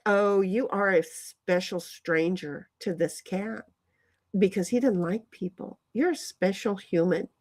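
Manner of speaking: acting out a gently impressed remark; tender wonder. Telling the guest the cat chose him, tenderly.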